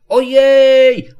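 loud, very high cry of alarm; startled high-pitched yell. A narrator's reading. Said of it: "wrzasnął".

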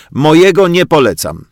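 ordinary delivery, nothing marked

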